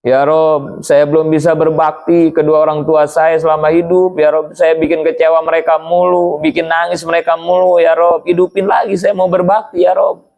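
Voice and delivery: dying man pleading. Acted. Dying man pleads to be revived for his parents, mild plea. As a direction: beg to make amends to his parents. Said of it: "Semua diteriakin sama dia".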